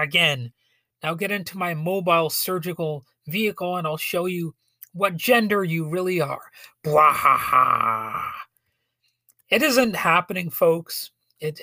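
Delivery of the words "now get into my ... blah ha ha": lightly voiced sinister villain; a hint of a gloating movie villain; mustache twirling villain. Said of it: "mad mustache-twirling doctors".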